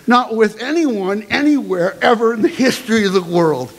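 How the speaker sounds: emphatic oath, building in a list of denials. Acted. Student swears to both heads, emphatically. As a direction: swear it firmly, point by point. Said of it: "I say emphatically".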